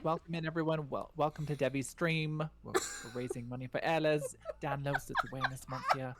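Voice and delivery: put-on British accent. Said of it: "distracts from my British accent".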